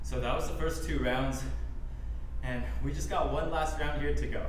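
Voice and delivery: winded after a workout; catching breath between words. Real, not acted. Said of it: "Sorry, I'm just catching my breath".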